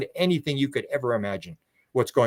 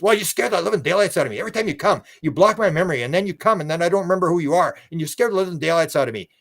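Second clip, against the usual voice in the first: quick, higher, rushed protest; flustered complaint; 4 semitones higher, faster than usual. Retold or imitated. Sherry complaining to the alien, quick flustered protest. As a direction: pour it out in a fluster. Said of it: "And she says".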